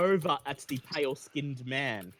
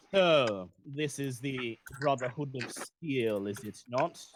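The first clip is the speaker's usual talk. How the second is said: lightly voiced sinister stranger, a bit lower; malevolent voice; 3 semitones lower than usual. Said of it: "he says in a rather malevolent sounding voice".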